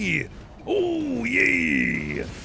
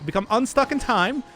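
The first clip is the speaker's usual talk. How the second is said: 1930s cartoon voice. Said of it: "this is how I talk all the time now".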